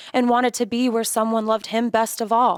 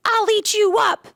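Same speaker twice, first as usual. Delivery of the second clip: put-on much higher, louder monster-boy growl; wild boy's roar; 7 dB louder than usual. A narrator's reading. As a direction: Max roaring like a wild thing. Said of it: "and Max said".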